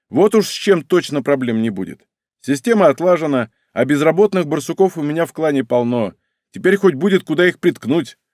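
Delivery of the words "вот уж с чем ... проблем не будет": plain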